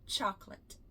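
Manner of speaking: chocolate in two syllables, CHOK-let, softly; quiet model chocolate as choc-let. Shown as a demonstration. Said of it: "É chocolate".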